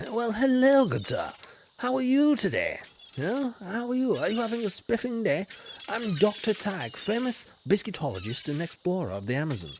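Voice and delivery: lightly hammed-up posh English gent, bright greetings; cheerful toff voice, a touch overdone; posh English explorer. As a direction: play a jolly old colonial explorer. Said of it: "I'm an Englishman".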